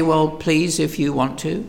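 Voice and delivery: soft, tentative mock request; mild polite pleading. Preacher mimics what God doesn't say, mildly pleading. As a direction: politely leave it optional, lightly acted. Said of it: "He doesn't say".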